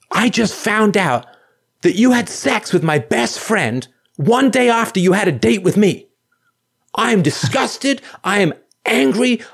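high, slow, outraged voicemail voice; shrill angry girlfriend. Retold or imitated. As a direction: play the furious girlfriend leaving a message, high and drawn out. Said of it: "it's kinda shrill".

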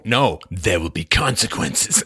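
low, slow, cold threat; menacing husband. Pretend. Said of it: "It's like".

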